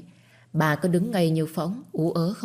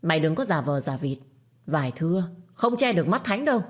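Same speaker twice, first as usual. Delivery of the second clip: through gritted teeth. Acted. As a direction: spit it out through clenched teeth at a rival. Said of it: "Cô ta nghiến răng".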